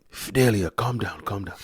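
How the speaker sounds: hushing down, voice dropping away; imitated calming. Dad trying to settle his fuming wife, imitated calming.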